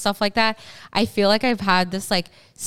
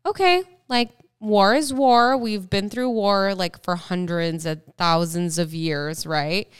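matter-of-fact. Retold or imitated. Younger self shrugging off war, offhand. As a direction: shrug it off as no big deal. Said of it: "And I was like".

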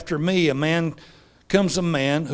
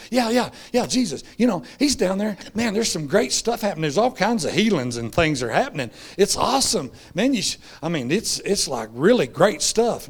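higher, eager gushing report; excited disciples; 4 semitones higher than usual. Retold or imitated. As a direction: hype up the good news like a fan.

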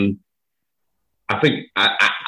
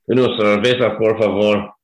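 put-on Scottish-accented Spanish. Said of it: "in my most beautiful accent".

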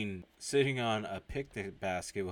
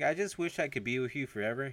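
higher-pitched yearning line; wishful lover; 5 semitones higher than usual. Retold or imitated. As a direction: act out a lover's wish. Lover's wish, then musing echo.

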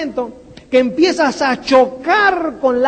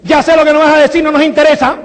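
dismissive retort; 6 dB louder, much faster than usual. Retold or imitated. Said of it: "enseguida te dicen".

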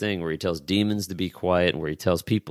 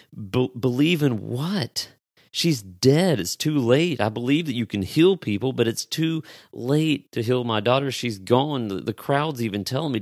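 higher-pitched, disbelieving protest; incredulous father; 4 semitones higher than usual. Acted. Imagined father answering Jesus about his dead daughter, incredulous. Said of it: "if you were the father, you would almost be thinking".

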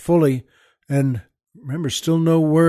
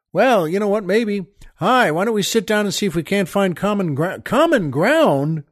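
mock reasonable voice; 4 semitones higher than usual. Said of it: "There's no saying".

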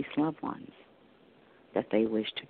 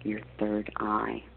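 guided meditation. Acted. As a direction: guide them gently into calm.

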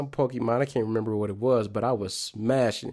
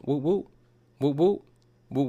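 Pokeball shake sound; 3 semitones higher than usual. Retold or imitated. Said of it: "that's my sound effect".

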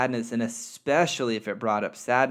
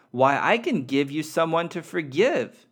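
eager offer; 5 semitones higher, 6 dB louder than usual. Acted. Friendly soul eagerly offers help.

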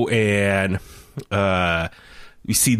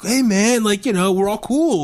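mock nervous plea; 10 semitones higher than usual. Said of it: "looked very shocked and was like".

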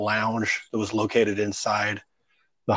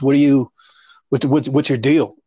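mock irritated host; 4 semitones higher, 7 dB louder than usual. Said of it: "the host of the show goes".

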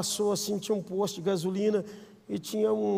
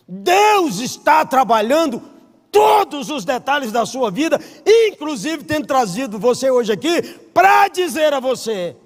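slow, loud, much higher proclamation; full-force pulpit preaching; fervent preaching; 7 semitones higher, 11 dB louder, slower than usual. Acted. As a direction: drive the promise home to the crowd.

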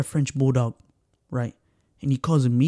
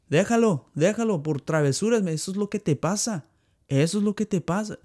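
Mexican dog owner; 5 semitones higher than usual. Retold or imitated. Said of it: "what any Mexican would say".

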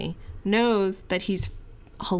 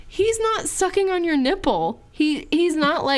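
mock scolding; 9 semitones higher, 4 dB louder than usual. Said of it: "I'm like".

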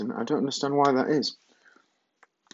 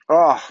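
loud, higher "ah" of pleasure; satisfied sigh; 4 semitones higher, 7 dB louder than usual. Real, not acted. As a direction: exhale with relish after a treat. Savouring Nutella.

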